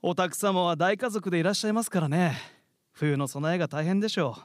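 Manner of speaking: lightly voiced grasshopper, leisurely and boastful; smug grasshopper. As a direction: savour every lazy word. Grasshopper boasting of free life. (気ままなキリギリスの自慢)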